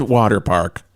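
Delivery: eerie ghostly moan on the words; spooky ghost haunting the park; haunted ghost voice. Pretend. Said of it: "That was my haunted ghost that I imagine is in the park".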